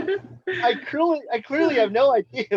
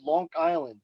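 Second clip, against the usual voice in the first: put-on Long Island accent. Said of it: "That's how they said it".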